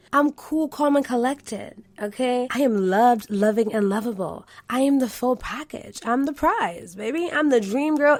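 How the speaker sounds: self-assured, regal affirmations, pitch lifted; confident highest self. Shown as a demonstration. Host shows listeners how her highest self speaks, proud and assured. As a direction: speak as your unbothered, royal best self. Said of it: "The highest version of myself would speak just like this".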